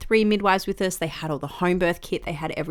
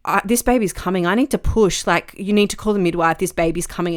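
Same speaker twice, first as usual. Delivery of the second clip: louder, urgent announcement; urgent alarm; 5 dB louder than usual. Retold or imitated. In labour, telling husband the baby's coming, urgent. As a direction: tell him the baby is coming now. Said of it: "I said to my husband".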